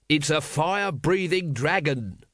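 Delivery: mock scream without much volume. A narrator's reading. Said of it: "screamed Vimes".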